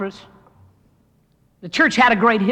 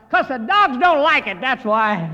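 higher, louder blurted answer; mock shout; 3 semitones higher, 5 dB louder than usual. First year salesman answering from the back, mock shout. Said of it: "shouted out".

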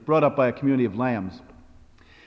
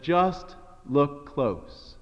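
slow, simple wisdom; 5 dB quieter, much slower than usual. Acted. Boy's wise answer to father.

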